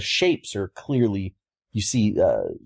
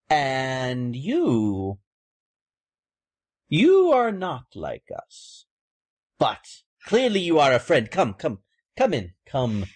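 raven folk lady; 2 semitones higher than usual. Acted. Raven folk lady welcomes Mira.

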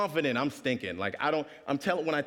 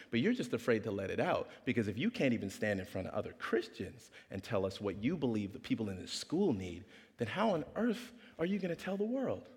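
calm; 4 semitones lower, 5 dB quieter than usual. Retold or imitated. Janessa's calm reply.

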